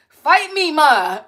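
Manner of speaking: put-on loud high childish taunt; mock kid defiance. Kid daring mom, loud and high. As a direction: dare mom as a sassy kid.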